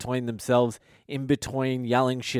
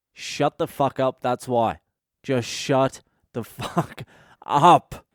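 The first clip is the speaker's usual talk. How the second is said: mock telling off; slower than usual. Telling the heckling crowd off.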